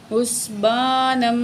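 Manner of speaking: حسبانم said with the noon merging into the seen; teacher models the joining; joined noon. Shown as a demonstration. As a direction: blend حسبانم's tanween into the next seen. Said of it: "نون کو سین سے ملائیں گے".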